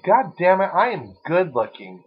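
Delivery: mock self-hype. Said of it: "You say".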